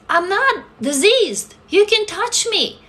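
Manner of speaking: high, slow, emphatic protest; indignant protest. Retold or imitated. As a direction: plead the point word by word, slowly. Retold protest to shunning acquaintances.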